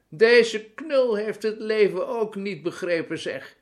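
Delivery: high, loud mocking old woman; piercing, amused cackly delivery; shrieking mirth. A narrator's reading. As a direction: shriek it with glee to your friends. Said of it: "gierde ze tegen een groepje".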